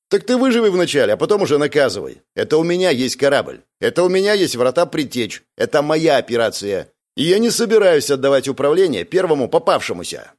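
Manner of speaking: defiant retort. Acted. Mercenary leader loudly defies the commander who wants control. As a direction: throw it back in his face, loud and high.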